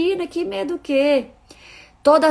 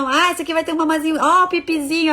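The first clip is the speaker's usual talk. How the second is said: higher, fast teasing coo; mock teasing adult; 6 semitones higher, 4 dB louder, faster than usual. Grown-up to a baby on the changing table, teasing coo. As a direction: tease the baby like a careless grown-up.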